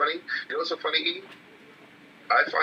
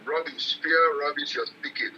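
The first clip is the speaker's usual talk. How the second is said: put-on a light African accent, scolding; imitating an African father's accent, dismissive; slower than usual. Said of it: "in his African accent".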